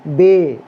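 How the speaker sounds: बे said as "bay" with a long e vowel; letter name. Shown as a demonstration. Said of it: "Urdu में कहते हैं बे".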